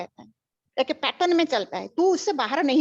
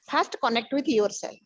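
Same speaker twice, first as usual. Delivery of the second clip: very slow, each word set apart; slow emphatic teaching; much slower than usual. Real, not acted. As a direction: lay it down word by word like a rule. Guru stresses key teaching slowly. (बहुत धीमे, हर शब्द पर ज़ोर देकर)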